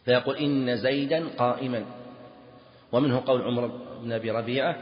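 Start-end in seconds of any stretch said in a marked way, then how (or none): 0.4-1.9 زيدا and قائما both ending in a; slow example, قائما closed on an a vowel; double-accusative demo. Shown as a demonstration. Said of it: "ينصب الجزئين".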